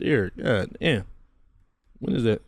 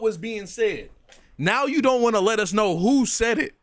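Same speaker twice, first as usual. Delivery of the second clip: high-pitched exasperated complaint; indignant, higher-pitched rant; incredulous calling-out; 4 semitones higher than usual. Real, not acted. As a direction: call out the dodge in rising disbelief. Calling out evasive man in clip.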